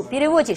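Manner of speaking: 比利沃基 with the stress moved forward onto 沃. Shown as a demonstration. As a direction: put the stress on 沃 in 比利沃基, not on the ending. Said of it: "是重音前移了啊". (比利沃基，重音前移到“沃”)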